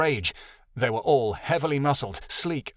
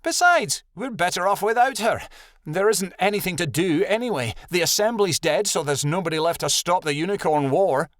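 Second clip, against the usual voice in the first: scornful; 6 semitones higher than usual. A narrator's reading. Rebecca argues they are better off without her, scornful. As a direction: start high and pointed, then settle. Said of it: "Rebecca snorted loudly".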